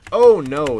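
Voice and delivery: sudden loud dismay; alarmed oh no. Real, not acted. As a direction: blurt it out, caught off guard. Sudden wrong direction in game.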